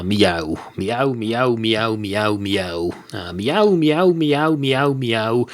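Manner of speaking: repeated playful meows like a cat; meowing cat. Pretend. Comic cat meowing to the barman. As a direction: meow like a lazy pub cat. Cat sounds while busking.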